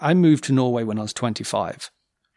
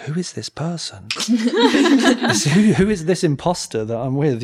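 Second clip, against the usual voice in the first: laughing disbelief; 5 semitones higher, slower than usual. Retold or imitated. Amazed at partner speaking Norwegian.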